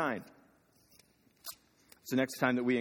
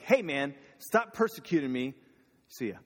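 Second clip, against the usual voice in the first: a breezy, offhand "stop persecuting me", a bit louder; casual brush-off; 2 semitones higher, 4 dB louder than usual. Retold or imitated. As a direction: toss it off like a passing buddy. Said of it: "doesn't just show up to Saul and be like".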